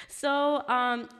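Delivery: plain reading voice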